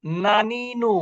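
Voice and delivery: নানিনু with tongue on the teeth for n; dental n. Shown as a demonstration. Teacher showing pupils the Bangla-like letter, dental n. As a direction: draw out নানিনু with plain dental n's. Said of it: "দন্ত ন".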